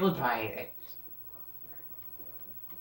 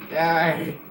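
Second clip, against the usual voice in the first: shout; 3 semitones higher, 8 dB louder than usual. Real, not acted. Shooting at enemy.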